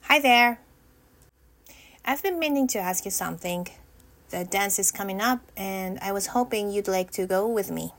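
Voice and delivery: short and sweet, steady and sure; confident. Pretend. Rehearsing the dance invitation, calm and confident. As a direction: ask it plainly with calm confidence. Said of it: "That was pretty good".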